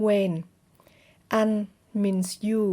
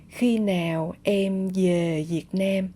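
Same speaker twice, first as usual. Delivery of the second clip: southern accent. Shown as a demonstration. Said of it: "Or I will say".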